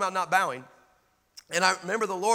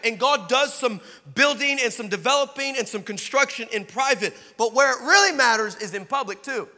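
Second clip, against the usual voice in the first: raised, driving sermon voice; full-force preaching; 5 semitones higher, 6 dB louder than usual. Acted. Preacher urging young people to stop bowing, forceful preaching. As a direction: preach it hard to the crowd.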